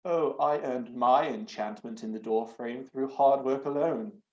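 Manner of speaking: put-on slow, pompous old grump; lightly voiced snooty curmudgeon. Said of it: "his best snooty curmudgeon voice".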